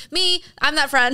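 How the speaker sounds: high, loud, slow mock extrovert; eager extrovert. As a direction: shout it out proudly like an attention-loving extrovert. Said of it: "all the extroverted people that are like".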